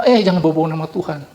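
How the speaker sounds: quick, brushing-off mock retort; dismissive retort. Preacher mimics a scoffer dismissing talk of God, fast and dismissive. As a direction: toss it off fast like waving him away.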